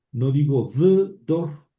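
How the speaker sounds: v dor said as the wrong form; wrong form example. Shown as a demonstration. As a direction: show v dor as what not to say. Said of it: "para decir y una generación".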